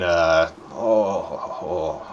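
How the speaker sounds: low, soft groan of someone coming round; quiet, trailing groans; weak moaning. Acted. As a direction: moan faintly as if half-conscious. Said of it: "stirring and moaning".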